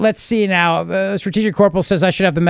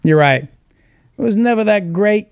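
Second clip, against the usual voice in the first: Cuomo impression. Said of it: "my Andrew Cuomo".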